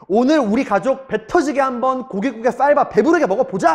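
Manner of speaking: rally the family as a proud dad; proud father. Retold or imitated. Father promising his family a feast, proud. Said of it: "오늘만큼은 당당한 아빠".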